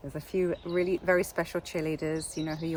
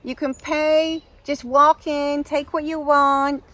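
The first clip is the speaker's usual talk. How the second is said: high, loud, stretched mock American; bad American accent; 6 semitones higher, 5 dB louder than usual. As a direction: make a sales pitch in hammed-up American. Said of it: "A very bad American accent".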